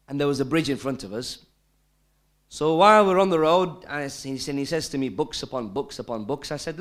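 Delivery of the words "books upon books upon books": lower-pitched imitation of a Lancashire accent. Repeating the man's answer on the road, imitated Lancashire accent. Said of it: "in his broad Lancashire accent".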